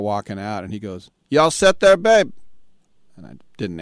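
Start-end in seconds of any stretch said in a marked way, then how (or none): 1.3-2.3 high, loud, sing-song "babe" call; calling out sweetly across the bar; mock sweet bartender. Bartender calls him babe, high and loud.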